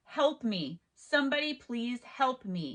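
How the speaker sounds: ordinary delivery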